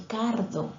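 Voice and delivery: cardo, with an added d for carro; child's mispronunciation. Shown as a demonstration. Teacher showing a child's distortion, cardo. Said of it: "el niño quiere decir carro".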